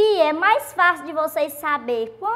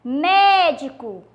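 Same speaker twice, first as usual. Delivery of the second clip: "Médico" slowly, with a long "Mé"; stress on MÉ; much slower than usual. Shown as a demonstration. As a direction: draw out the first syllable of "Médico". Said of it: "o M E é acentuado". ("Médico" devagar, com o "Mé" forte)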